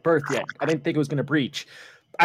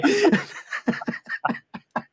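wheezing high laugh with no voice; high airy laughter; 14 semitones higher than usual. Real, not acted. Cracking up after telling the stall story. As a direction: cackle breathlessly, high.

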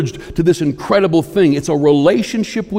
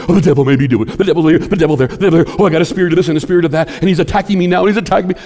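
louder, mock-whiny voice of a Christian blaming the devil; 4 semitones higher, 5 dB louder, much faster than usual. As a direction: mimic a complaining believer, hammed-up. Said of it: "Christians give so much credit to".

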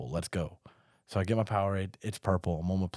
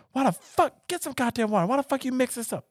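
drill sergeant. Retold or imitated. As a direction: bark it like a furious drill sergeant. Recruit retells sergeants yelling.

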